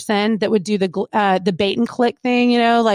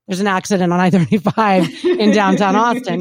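mock radio traffic read, a bit louder; traffic report voice; 2 semitones lower, 3 dB louder than usual. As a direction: rattle it off like a routine radio traffic update. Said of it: "I had more to say than".

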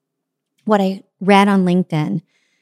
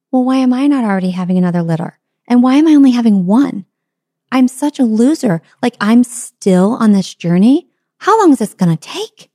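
higher, whining self-pity rising to a wail; whiny self-pity; 4 semitones higher, 3 dB louder than usual. Acted. Elephant comparing herself to the dog, whining higher. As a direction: moan about being a loser, pitch climbing.

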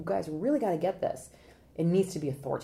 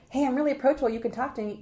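high, overfriendly lilt; mock approachable; 6 semitones higher, 4 dB louder, faster than usual. Consultant mocking lawyers who announce approachability, high mock friendliness. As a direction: sell friendliness with exaggerated high pitch. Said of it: "you don't have to say".

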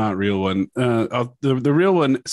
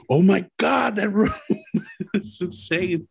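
higher voice, laughing through it; mock exasperated coworker; 11 semitones higher than usual. Coworkers leaving the clicking room, mock exasperated. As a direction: blurt it out fed up with the room. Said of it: "they're like".

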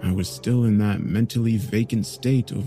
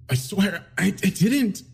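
higher, halting voice; shaky plea; 10 semitones higher than usual. Acted. Suspect repeating his innocence to good cop, shaken. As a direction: still protesting innocence.

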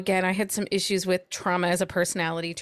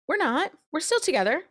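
insistent Garrett; 6 semitones higher than usual. Retold or imitated. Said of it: "he keeps telling everybody that will listen".

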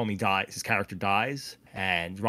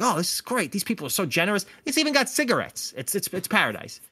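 retold delight; 7 semitones higher, faster than usual. He's very happy to be there.

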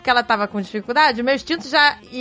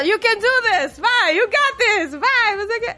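imitating American mom; 9 semitones higher, slower than usual.

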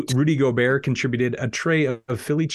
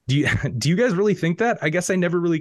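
surprised; 7 semitones higher, much faster than usual. Acted. Adelman shocked, laughing.

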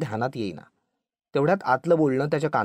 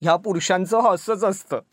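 mildly amused, higher-pitched remark; a touch of knowing amusement; 4 semitones higher, 4 dB louder than usual. A narrator's reading. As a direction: say it with amused resignation. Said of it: "ती बाई हसून म्हणाली".

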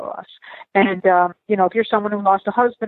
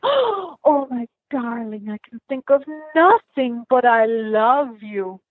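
tender wife voice; 3 semitones higher, much slower than usual. Retold or imitated. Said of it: "she says to him".

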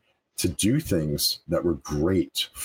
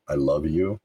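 sincere affirmation; 2 semitones lower than usual. Shown as a demonstration. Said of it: "just say repeatedly".

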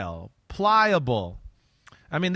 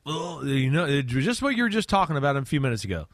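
ordinary talk, nothing marked

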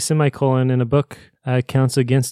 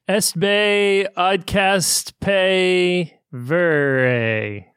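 slow garbled backwards-sounding words; backwards speech; 5 semitones higher, much slower than usual. Pretend. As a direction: drag the syllables out as if reversed. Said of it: "Take it away, Jake".

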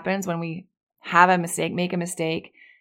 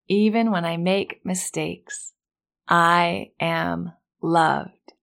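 very slow, stretched-out repeat; slower affirmation; much slower than usual. Shown as a demonstration. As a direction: draw it out for the echo. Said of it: "repeat after me".

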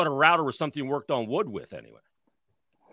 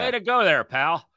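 much higher, mocking congratulations; sarcastic praise; 7 semitones higher, 5 dB louder than usual. Real, not acted. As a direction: fake cheer, dripping with sarcasm. Mocking the player's leadership.

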